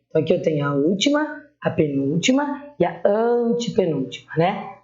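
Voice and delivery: ordinary talk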